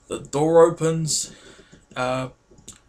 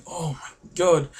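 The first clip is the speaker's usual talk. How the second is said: slow, mildly awestruck imitation; imitated shy awe; slower than usual. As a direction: draw it out like starstruck shy friends. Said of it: "They were like that".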